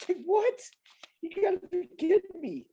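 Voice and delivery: high, laughing what; cracking up at how absurd it is; laughing disbelief. Real, not acted.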